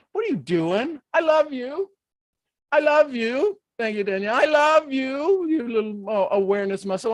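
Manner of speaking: exaggerated mock love. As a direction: coo at the pain as if it were a pet. Loving the cramp, high voice.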